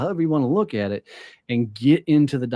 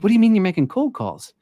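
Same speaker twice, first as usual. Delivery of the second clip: much higher, louder incredulous question; can't believe what you just heard; disbelief; 10 semitones higher, 5 dB louder than usual. Retold or imitated. Boss stunned finding Austin.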